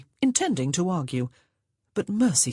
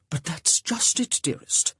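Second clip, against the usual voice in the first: whispered. A narrator's reading. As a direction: whisper it nervously. Augustine, hushed.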